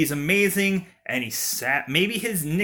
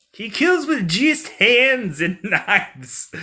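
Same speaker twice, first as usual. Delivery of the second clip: "He kills with just hands and knives" said higher, louder and slow, breaking into a laugh; dramatic trailer line; 7 semitones higher, 4 dB louder, slower than usual. Shown as a demonstration. Trying the killer's tagline aloud, hammed-up and laughing. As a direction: pitch it up big like a movie tagline. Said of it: "let's let that roll. That sounds kinda funny".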